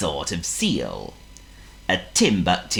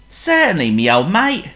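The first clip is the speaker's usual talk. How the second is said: loud cockney wolf voice; chummy rough wolf; 12 semitones higher, 6 dB louder than usual. Acted.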